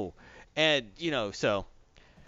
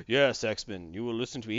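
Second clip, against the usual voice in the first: commanding villain; 5 semitones lower than usual. Retold or imitated. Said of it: "He's always, you know".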